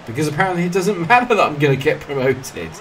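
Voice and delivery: high, loud indignant complaint; exasperated protest. Real, not acted. Griping about his job despite promotion.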